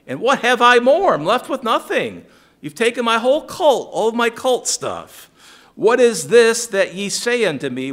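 high, loud anguished protest; indignant Micah. Retold or imitated. Micah protesting to the Danites he is left with nothing, high and loud.

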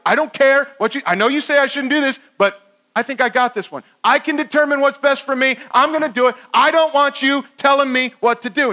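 mock-stubborn self-assurance; defiant. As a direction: brush off the warning, cocky.

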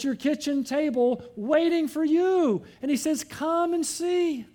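high, strong preacher's appeal; impassioned preaching. Real, not acted. Preaches an urgent invitation.

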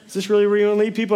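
mock sharp wife, rushed and pointed; cutting question. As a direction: fire the question off like a punch. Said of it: "She hit me with a sentence".

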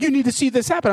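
bossy nurse. Retold or imitated. Nurse insists he watch.

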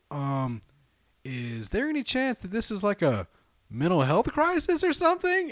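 imitated dispatcher. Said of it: "the lady on the phone is just like".

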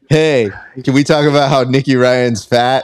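light Australian accent impression of a cocky joker; a hint of a teasing Aussie voice; Craig Jones Australian accent. Host mocking Craig to his guest in a light Australian accent. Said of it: "you add the accent".

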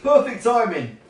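high, loud gleeful cheering; delighted. A narrator's reading. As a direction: crow with mischievous delight. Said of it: "rolling about with laughter".

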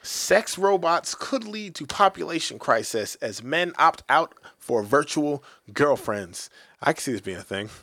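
slow, deliberate headline reading; news read. Acted. Reading a sex-robot headline to cohosts, slow news voice. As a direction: read it like an anchor, slowly.

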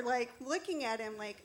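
ordinary talk

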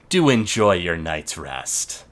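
low, slow, smirking menace; smug villain voice. Acted. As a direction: savor each word with a smirk. Skyval smirking at prisoners.

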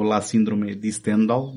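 lightly Italian-accented film title. Shown as a demonstration. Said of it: "e este é o meu melhor sotaque italiano".

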